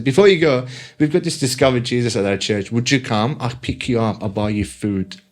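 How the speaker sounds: put-on Korean accent. Lecturer inviting a student to church, imitated Korean accent. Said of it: "You gotta stop with that Korean accent".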